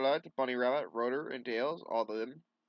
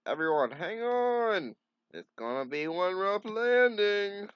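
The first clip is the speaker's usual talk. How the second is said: loud, slow, higher warning call; urgent shout; 11 semitones higher, 8 dB louder, slower than usual. Acted. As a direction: yell over the crash. Warning before a crash landing.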